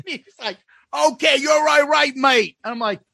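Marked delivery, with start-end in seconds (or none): 0.9-2.6 raised-pitch mock Aussie accent; boozy Aussie impression; drunk Australian. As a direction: imitate a drunk Australian mate. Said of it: "Australian guy".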